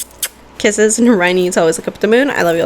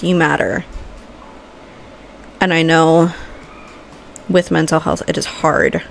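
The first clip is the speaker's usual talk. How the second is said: heartfelt pep talk. Acted. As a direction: speak from the heart to lift them up. Emotional motivational pep talk.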